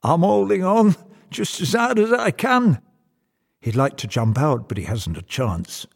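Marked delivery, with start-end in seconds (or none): 0.0-2.8 raised, higher voice of a nervous passenger; strained shout back. Acted. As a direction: call back loudly, hanging on for dear life. Frightened passenger calls back.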